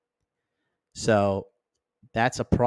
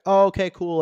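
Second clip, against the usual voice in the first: high, breezy oh okay; mock relieved friend; 9 semitones higher, 4 dB louder than usual. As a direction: imitate a friend shrugging it off. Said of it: "your friends can be like".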